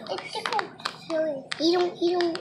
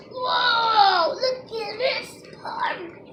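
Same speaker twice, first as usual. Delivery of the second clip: delighted opening a present; 4 semitones higher, much slower than usual. Real, not acted. Child opening surprise egg.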